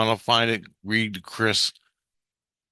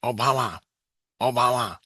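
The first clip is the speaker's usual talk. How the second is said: lightly voiced, slightly raised repeats; inner voice; 4 semitones higher than usual. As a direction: mimic a one-word inner voice, spaced out. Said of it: "And he goes".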